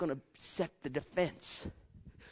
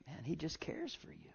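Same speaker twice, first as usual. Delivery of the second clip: soft, breathy whisper; 16 dB quieter than usual. Real, not acted. Preacher telling the congregation God cares, whispered. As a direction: whisper it tenderly. Tender aside in sermon.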